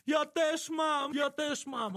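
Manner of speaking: put-on high, slow quavering old-woman cry; trembling cry. Grandma on the bus holds up her rosary, a high slow trembling cry. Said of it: "trzęsąc się i krzyczy".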